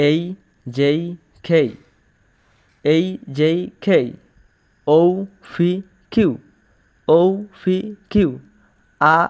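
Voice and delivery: letters one by one, "এই, জেই" with i glides; pronunciation drill. Shown as a demonstration. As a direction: puff air on "খেই", "ফি" and "ঠি". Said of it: "এভাবে পড়ি".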